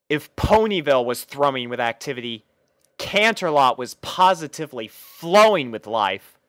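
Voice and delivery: plain reading voice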